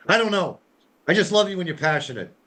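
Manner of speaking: high-pitched, innocent protest; retold placating reply, pitched well up; playful innocence. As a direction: play innocent with an exasperated spouse. His placating reply in retold quarrel.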